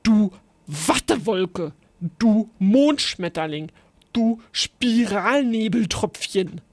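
mild playful call of silly insults; child teasing a friend with made-up insults; grinning call. A narrator's reading. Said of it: "Er grinste und rief".

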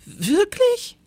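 shrill high startled squeak; little teacher squeaks in shock; alarmed question. Acted. Teacher hears it always rains.

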